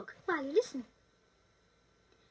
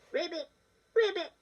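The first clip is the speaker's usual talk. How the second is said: crying frog. Acted. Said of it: "cried the little frog".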